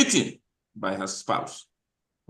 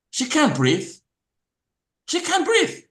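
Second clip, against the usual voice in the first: much higher and louder, pleading; anguished cry; 4 dB louder than usual. Real, not acted. Host to audience about the woman, anguished loud cry. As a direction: cry it out in pain.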